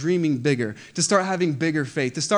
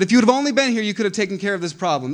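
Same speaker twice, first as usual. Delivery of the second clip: a loud, higher cry of lightly voiced grief; pleading sisters; 5 semitones higher, 5 dB louder, faster than usual. Mary and Martha begging Jesus, loud pleading.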